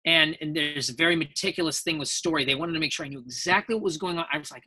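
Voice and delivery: ordinary talk, nothing marked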